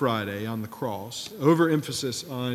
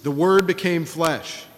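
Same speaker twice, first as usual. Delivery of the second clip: slow, loud, higher mock yell in a rough Scottish accent; imitated professor's yell; 5 semitones higher, 6 dB louder than usual. Imitating his professor yelling out a favourite verse, slow mock yell. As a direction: proclaim it slowly, badly faking a Scottish accent. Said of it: "he would yell out".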